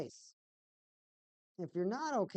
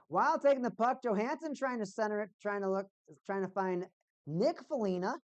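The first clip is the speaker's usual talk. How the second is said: raised commentator delivery; play-by-play call; 4 semitones higher, 4 dB louder than usual. Real, not acted. Streamer calling Johansson centering the puck, play-by-play.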